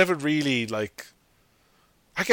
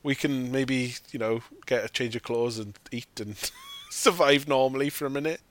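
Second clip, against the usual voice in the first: mock cheering family. Children and mum cheering about escaping the raft, mock joy. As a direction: cheer like starving kids finally saved. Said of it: "the children and the mum are like".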